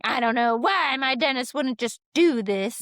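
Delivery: puzzled patient. Retold or imitated. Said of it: "They're like".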